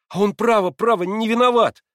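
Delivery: animated exclaiming. A narrator's reading. Alyosha defending his father to Natasha, animated. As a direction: burst out defending him. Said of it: "воскликнул Алёша, одушевляясь".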